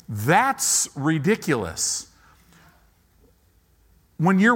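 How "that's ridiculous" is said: drawn-out, slow scoffing inner voice; slow mocking doubt. Pastor voicing the doubting mind to the congregation, slow and scoffing. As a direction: let the doubting mind sneer slowly. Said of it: "your mind will go".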